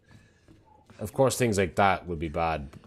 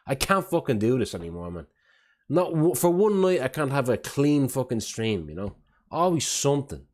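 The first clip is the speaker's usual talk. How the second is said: exasperated rant; 5 semitones higher than usual. Real, not acted. Streamer venting about ruined stream.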